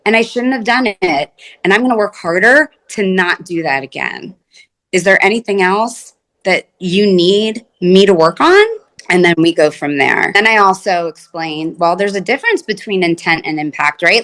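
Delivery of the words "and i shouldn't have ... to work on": sincere ownership. Shown as a demonstration. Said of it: "not getting defensive".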